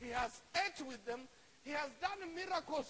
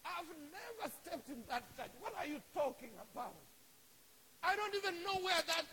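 mock-indignant, higher-pitched protest; acted flustered denial; 5 semitones higher than usual. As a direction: deny it all in affronted disbelief. Acts Peter's indignant denial.

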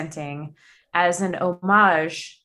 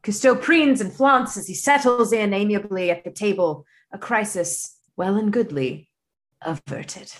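put-on British accent. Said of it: "doing my best British accent".

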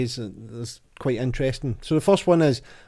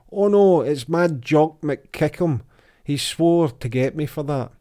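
mock panic; 3 semitones higher, 5 dB louder than usual. Character panics and flees.

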